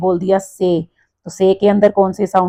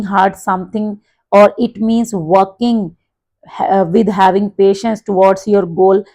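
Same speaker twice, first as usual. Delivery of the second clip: model answer; much slower than usual. Shown as a demonstration. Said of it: "teacher models a sample spoken answer".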